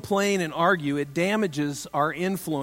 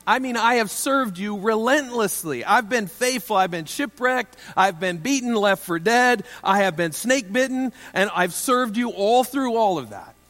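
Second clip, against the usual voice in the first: complaining Paul; 3 semitones higher than usual. Retold or imitated. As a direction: play Paul airing every grievance to God, indignant. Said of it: "imagine if you're the Apostle Paul".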